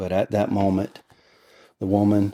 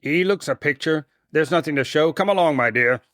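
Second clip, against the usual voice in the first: high, coaxing woman's character voice; fond and sly; 9 semitones higher than usual. A narrator's reading. Sister drawing down the sheet for Laura, fond and sly. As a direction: show off fondly, with a sly coax. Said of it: "her voice sounded fond and sly".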